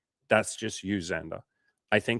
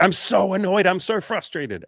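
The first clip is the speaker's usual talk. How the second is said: much higher, louder whiny complaint; a client complaining, mocked in a high whine; mock whining; 11 semitones higher, 5 dB louder than usual. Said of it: "they're like".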